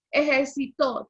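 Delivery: ejército stressed on the closing "to"; ejército, accent falling on the last syllable. Shown as a demonstration. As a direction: put the weight on the final o of ejército. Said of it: "por ende lleva tilde".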